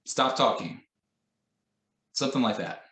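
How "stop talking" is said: sharp command. Shown as a demonstration. Teacher demonstrating a curt order to a noisy class. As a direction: bark it like a fed-up teacher. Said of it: "another example".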